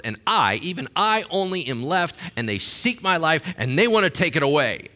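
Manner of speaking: loud, high, impatient repeat of the complaint; exasperated Elijah. Acted. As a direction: tell it again like he's fed up. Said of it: "And Elijah said".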